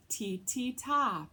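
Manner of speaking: ti, ti quick, then a longer ta; two fast ti and a held ta; rhythm syllables. Shown as a demonstration. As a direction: chant ti ti ta to the beat. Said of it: "two eighth notes ... and then our quarter note".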